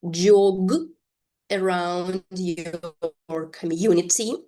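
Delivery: "Jog" set apart, then "around your community" drawn out slowly; slow repeat-after-me model. Shown as a demonstration. Teacher has learners repeat the sentence after her, slow and segmented. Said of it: "you are to repeat after me".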